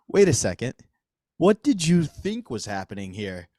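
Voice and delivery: drawn-out comic disbelief; mock incredulity. Comic retelling to the store clerk, mock incredulous. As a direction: question it slowly, in playful outrage. Mock confrontation of the retold cashier.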